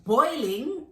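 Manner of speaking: acted disbelief, rising question; incredulous. Customer hearing her plantain is boiling, incredulous.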